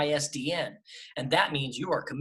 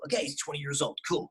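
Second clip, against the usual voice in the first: put-on natural young adult voice, slightly soft; twenty-year-old character; 5 dB quieter, faster than usual. Shown as a demonstration. Voice actor showing a director a twenty-year-old, natural and easy. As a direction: play twenty in your own register. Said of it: "this character's twenty years old".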